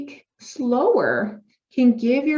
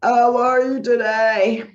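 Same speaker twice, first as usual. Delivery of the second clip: slow, loud, strained demo with no air behind it; weak airless voice; 2 semitones higher, 6 dB louder, slower than usual. Shown as a demonstration. Therapist demonstrating a breathless, pushed voice to clients. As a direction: show a voice with no breath support. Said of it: "talking without air passing through".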